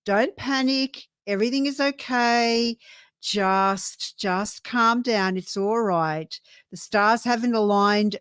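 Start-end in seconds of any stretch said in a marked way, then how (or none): 0.0-6.4 very slow, drawn-out reassurance; calm them down, word by word; soothing card message. Acted. Tarot card telling a viewer to relax, slow reassurance. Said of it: "the card is saying".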